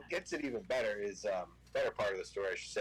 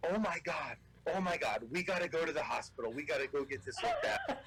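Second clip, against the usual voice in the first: higher-pitched retold panic; mock alarm; 4 semitones higher than usual. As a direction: voice an alarmed hunting guide, half in fun. Guide panics at seeing the leg.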